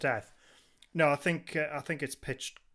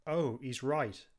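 slow realization; much slower than usual. Retold or imitated. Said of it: "where she goes".

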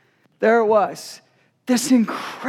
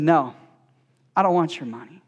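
architect's reply; 8 semitones lower than usual. Retold or imitated. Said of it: "he said".

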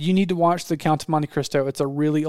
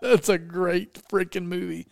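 laughing; 3 semitones higher than usual. Real, not acted. Laughing after shared movie quotes.

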